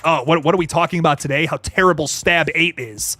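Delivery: lightly nasal, a little angry character voice; Jamie. Acted. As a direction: put on a slightly nasal, irritable voice. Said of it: "let me do my Jamie voice".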